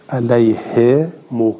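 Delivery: slow "علیه مو", long "he" then rounded "mo"; damma after kasra. Shown as a demonstration. Teacher illustrating the vowel sequence, slow "علیه مو" as "alayhe mo". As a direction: stretch "he" before the "mo" in "علیه مو". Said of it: "اون ضمه بعد از این کسره".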